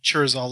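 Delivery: "Churzal" slowly, starting with CH as in church; name with CH. Shown as a demonstration. Co-host spelling out the name, careful "Churzal" with CH. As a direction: say "Churzal" clearly with a CH opening. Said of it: "like C H".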